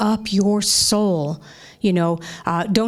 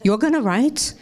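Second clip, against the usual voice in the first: higher, incredulous Yiddish mother rising; yiddish accent; 4 semitones higher than usual. Retold or imitated. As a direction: echo it back higher in disbelief, Yiddish accent. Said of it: "my mother said something like".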